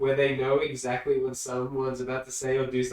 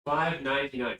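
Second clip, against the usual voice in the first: usual speaking voice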